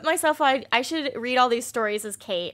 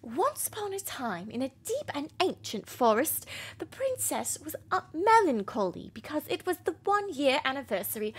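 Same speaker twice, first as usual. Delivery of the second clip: princess voice. Acted. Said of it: "I like my princess voice".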